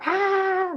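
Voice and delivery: high exasperated shout of ah; frustrated yell. Retold or imitated. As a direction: erupt like a volcano, pitched high. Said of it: "just volcano".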